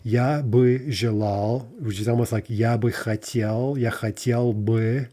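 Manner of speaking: "бы" said slowly with a full vowel each time; slow long forms. Shown as a demonstration. Teacher slowly comparing forms with "бы". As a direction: spell out each "бы" phrase slowly. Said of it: "long form".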